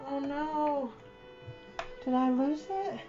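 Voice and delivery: ordinary talk, nothing marked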